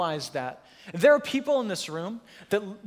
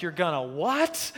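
incredulous; 3 semitones lower, slower than usual. Retold or imitated. Wife's incredulous reply, retold.

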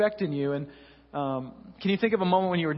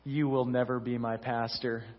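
lower, softer, a flat quiet put-down; lightly voiced older gentleman's snub; hint of a dismissive old man, quiet; quiet cold old man; 5 semitones lower, 4 dB quieter than usual. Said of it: "and he says".

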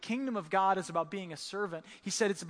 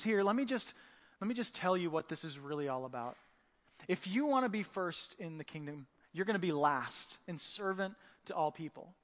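sit them down and calmly explain; gentle teacher; 2 semitones lower, 4 dB quieter than usual. Retold or imitated. Jesus teaching his disciples, gently and calmly. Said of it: "the posture of a good teacher".

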